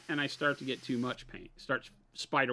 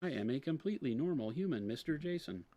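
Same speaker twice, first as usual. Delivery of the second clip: alien voice; 6 dB quieter than usual. Pretend. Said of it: "if I started talking like that for real".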